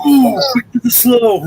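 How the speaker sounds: cat character voice. Retold or imitated. Quoting the cat character excitedly.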